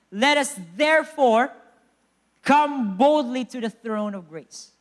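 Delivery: measured, emphatic verse proclamation; declamatory scripture reading. Real, not acted. Preacher reads Hebrews to the church, declamatory delivery. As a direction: proclaim the verse in weighty phrases.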